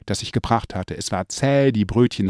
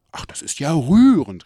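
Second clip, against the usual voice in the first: higher, a little louder, delighted; delighted exclamation; 5 semitones higher, 3 dB louder than usual. Retold or imitated. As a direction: gush over it like a proud grandmother. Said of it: "rief meine Großmutter".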